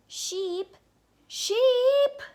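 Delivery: loud, high call building up. Acted. Sheepdog calls for the missing sheep, loud rising call. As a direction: call her from across the farm.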